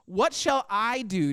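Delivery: slow, with weight on "I"; stress on I. Shown as a demonstration. Preacher quoting the rich man's self-talk, stress on I. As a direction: lean on the word "I", drawn out. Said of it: "notice what I emphasize here".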